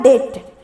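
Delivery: "डेट" with no b before the t; silent B. Shown as a demonstration. Teacher giving the pronunciation to learners, "डेट" with silent B. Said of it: "जिसका pronunciation होता है".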